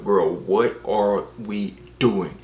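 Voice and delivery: drawn-out, slow baffled question; baffled disbelief. Retold or imitated. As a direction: stretch each word in disbelief. Baffled retort to the narrator.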